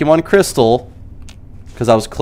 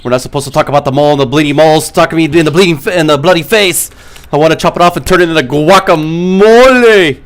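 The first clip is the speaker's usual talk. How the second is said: movie rant voice; 5 semitones higher, 4 dB louder than usual. Retold or imitated. Acted movie rant, fast.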